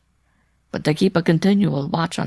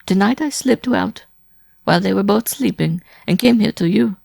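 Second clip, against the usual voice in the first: high, loud pleading woman; desperate, near sobbing; 12 semitones higher, 6 dB louder than usual. A narrator's reading. Wife begging Simon to protect her, tearfully desperate. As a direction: beg for rescue, building toward sobs. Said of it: "could no longer suppress her sobs".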